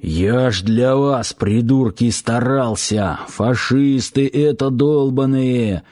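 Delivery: put-on slow, slurred drunken ranting; drunk man ranting. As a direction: rant like a drunk hunter. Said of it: "орал брыкающийся Батон".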